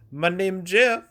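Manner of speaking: high-pitched, hammed-up Hispanic accent; bad Hispanic accent. Quoting the iconic movie meme, mock Hispanic accent. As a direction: quote the meme in a terrible fake Hispanic accent. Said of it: "the worst Hispanic accent in history".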